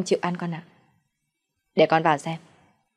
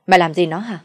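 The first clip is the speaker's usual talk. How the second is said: louder, demanding scold; angry scolding; 5 dB louder than usual. Acted. Father scolding his son over the dead girl, angry. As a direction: demand an answer from the foolish son.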